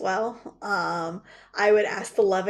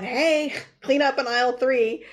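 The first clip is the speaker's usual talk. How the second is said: mock announcement; 4 semitones higher, 4 dB louder than usual. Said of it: "they're not coming in behind you going".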